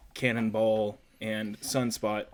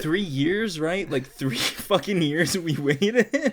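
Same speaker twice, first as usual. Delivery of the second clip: exasperated; 5 semitones higher, 6 dB louder, much slower than usual. Real, not acted. Disappointed rant about the long wait.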